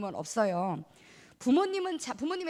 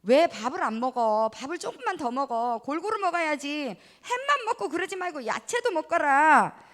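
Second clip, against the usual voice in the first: nagging parent; 4 dB louder than usual. Acted. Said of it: "이런 말 많이 하시죠?".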